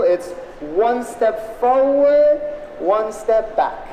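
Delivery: stretched-out, rhythmic dance instruction; slow dance call. Shown as a demonstration. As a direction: call the steps like a dance teacher. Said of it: "And it's quite simple".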